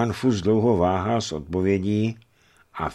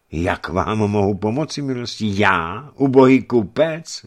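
high-pitched astonished questioning; acted bewilderment of a humble merchant; surprised; 4 semitones higher, 6 dB louder than usual. A narrator's reading. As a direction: protest in surprise, stretching the last words. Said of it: "zvolal Fuss překvapeně".

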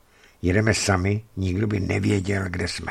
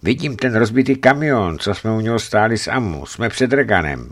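raised, eager report; excited recognition; 4 semitones higher, 4 dB louder than usual. Acted. Father recognises the wrecked truck near Regan, excited. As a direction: announce the landmark with rising relief.

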